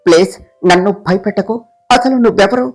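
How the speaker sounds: ordinary delivery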